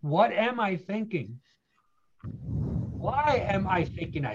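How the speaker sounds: slow, measured self-inquiry; steady, unhurried reflection; calm deliberate questioning. Shown as a demonstration. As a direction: stop and ask it slowly. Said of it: "here's the key".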